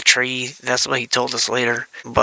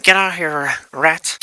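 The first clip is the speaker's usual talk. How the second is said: higher mock order to scram; raised-pitch retold scolding; mock yell; 4 semitones higher, 3 dB louder, slower than usual. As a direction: imitate an uncle shooing a pest. Uncle chases off the rat.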